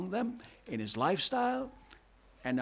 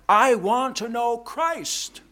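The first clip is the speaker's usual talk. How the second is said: impassioned plea, higher and louder; heartfelt cry, higher and louder; cry of the heart; 6 semitones higher, 4 dB louder than usual. Retold or imitated. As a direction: pour out the longing of an apostle. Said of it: "as a cry of his heart".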